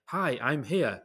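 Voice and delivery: imitating the phone assistant, lightly posh; a light put-on posh phone voice. Mimicking the phone answering him, lightly posh. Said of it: "in a really posh voice".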